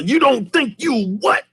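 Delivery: high put-on voice; mock threat. Villain grabbing the dad's collar, mock threat. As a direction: lean in with menace.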